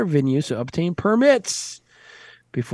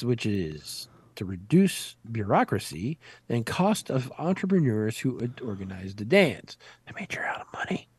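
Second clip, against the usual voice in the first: low whisper, no voice; whispered aside; 4 semitones lower, 7 dB quieter than usual. Pretend. Host mutters a joke to co-host, whispered. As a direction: hush it like a secret.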